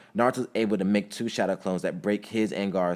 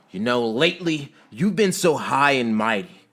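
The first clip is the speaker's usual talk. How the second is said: heated, high-pitched angry retort; yelling back; 6 semitones higher, 8 dB louder than usual. A narrator's reading. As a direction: yell back, rising to an outraged peak. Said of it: "Sasuke yells back at Naruto".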